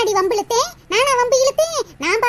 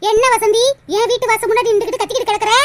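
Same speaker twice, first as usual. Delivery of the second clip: louder, sharp confrontation; angry retort; 3 dB louder, faster than usual. Acted. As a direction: face her down at the door. Confronting neighbours shouting at door. (கோபமான கேள்வி)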